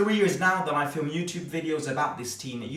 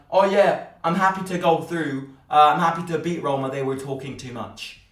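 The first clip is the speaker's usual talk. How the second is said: mocking London Cockney accent, louder and quick in the middle; 4 dB louder than usual. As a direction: sneer out the player's words in a put-on Cockney accent. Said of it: "spoke like a northern, northern London Cockney accent".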